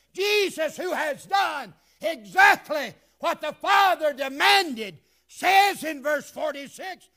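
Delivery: high, loud, building preacher's climax; full-force preaching. Acted. Pastor shouting the climax of his sermon: full-force preaching. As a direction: drive it home to the congregation.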